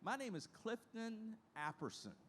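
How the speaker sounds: a hint of an old lady introducing herself; the old lady's voice. Resident telling the young trainee her name, lightly voiced. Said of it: "And she said".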